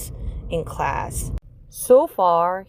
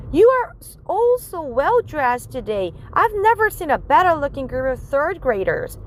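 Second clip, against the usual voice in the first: higher, beaming teacher praise; 6 semitones higher than usual. Acted. Teacher complimenting the class on their clothes, higher pitched. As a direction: gush over the class like a proud teacher.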